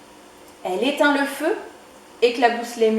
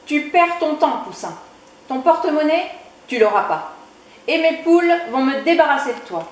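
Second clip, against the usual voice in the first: a hint of a scornful bully, higher and louder; mocking big man; 5 semitones higher, 4 dB louder than usual. Big man sneering at Poussin at his door. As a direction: brush the little chick off with contempt.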